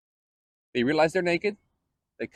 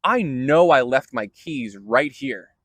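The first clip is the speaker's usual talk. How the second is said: casual lost keys; 3 dB louder than usual. Retold or imitated. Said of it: "what this kind of where is in the Hebrew is".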